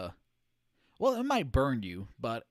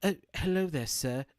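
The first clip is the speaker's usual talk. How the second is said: lightly imitated British accent, higher opening; mock-polite British greeting; 3 semitones higher, 3 dB louder than usual. Streamer imitating a voice actress's accent switch, British accent. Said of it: "busts out the British accent".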